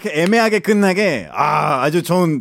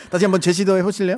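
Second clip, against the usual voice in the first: laughing; 3 semitones higher, faster than usual. Real, not acted. Host laughing while inviting retry.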